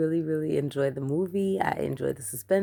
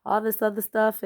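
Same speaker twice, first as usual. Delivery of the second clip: hammed-up Boston accent, higher and louder; mock Boston accent; 6 semitones higher, 5 dB louder than usual. Recalling a 30 Rock character, mock Boston accent. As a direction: parody a TV Boston accent, over the top. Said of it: "somebody on there from Boston".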